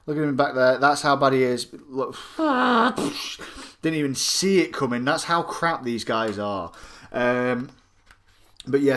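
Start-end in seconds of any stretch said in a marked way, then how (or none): 2.2-3.8 high, airy whooshing noise; imitated whoosh. Reviewer mimicking something they never saw coming, whooshing sound. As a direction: make a long whoosh with the mouth. Mimes an unseen hit coming.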